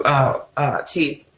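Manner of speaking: words round a sip of tea; while sipping a drink. Real, not acted. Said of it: "I have to take a sip of".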